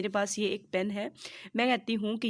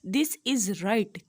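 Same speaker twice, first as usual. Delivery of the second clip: drawn-out, emphatic right; teacher slowly confirming the right answer; slow verdict; 3 dB louder, much slower than usual. Shown as a demonstration. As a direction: stretch "right" slowly with a rising start on "this". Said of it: "अब मैं कहती हूँ an umbrella".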